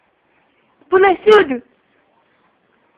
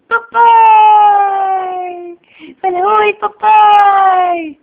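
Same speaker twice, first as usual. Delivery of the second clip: long, louder call for papai; 4 semitones higher, 5 dB louder, much slower than usual. Real, not acted. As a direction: call across the house for daddy. Calling out for the father. (chamando o papai em voz alta)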